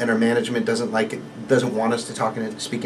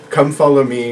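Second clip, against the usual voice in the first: broken phrasing of a new Italian immigrant; broken English. Retold or imitated. Gondolier imitating colleague's character, broken Italian English. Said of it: "broken phrasing".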